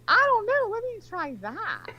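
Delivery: high, drawn-out plea; retold coaxing request. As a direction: stretch it out high, falling at the end. Retelling own wheedling request.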